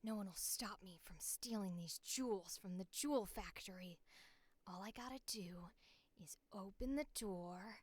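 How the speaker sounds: hushed, whispery robber scheming; sneaky robber. Pretend. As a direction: play a make-believe thief whispering the plan under the breath. I like the idea of her being the robber.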